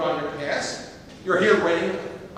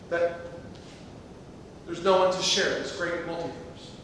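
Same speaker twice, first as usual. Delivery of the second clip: wistful musing; slower than usual. Acted. Dreamy musing on lonely universe.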